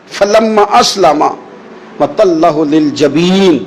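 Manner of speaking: slow melodic Quran recitation. Acted. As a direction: draw the verse out, chanting. (آہستہ لحن کے ساتھ تلاوت)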